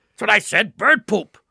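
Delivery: pirate voice. Retold or imitated. Pirate answer in joke.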